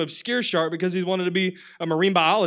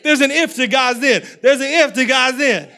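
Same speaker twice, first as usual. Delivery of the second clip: louder, punched on if; repeated declaration; 3 semitones higher, 6 dB louder than usual. Shown as a demonstration. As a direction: drive it home twice, loud. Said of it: "Look at three people. Say".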